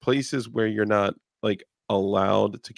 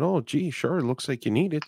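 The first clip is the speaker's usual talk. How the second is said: lightly higher, chirpy-polite mock Canadian; mock Canadian politeness; 6 semitones higher than usual. Mock Canadian niceness, handing over the car to a robber. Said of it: "And I said".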